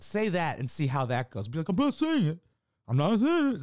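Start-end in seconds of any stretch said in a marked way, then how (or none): 1.7-3.6 high, loud teasing mimicry; mock-childish high protest; mocking taunt. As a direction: taunt like a kid dodging blame. Mocks someone dodging a word.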